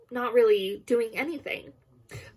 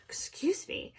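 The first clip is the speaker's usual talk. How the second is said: whispered; 8 semitones higher, 9 dB quieter than usual. Real, not acted. Apologizing under breath mid-stumble.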